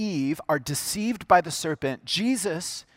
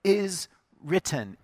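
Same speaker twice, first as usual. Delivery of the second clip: slow emphasis; 2 semitones higher, slower than usual. Shown as a demonstration. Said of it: "notice he begins with".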